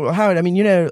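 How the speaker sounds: put-on a lightly done, half-hearted English accent; bad English accent. Podcast host quoting James Corden to his co-host, in a light, bad English accent. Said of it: "I do a bad corn accent".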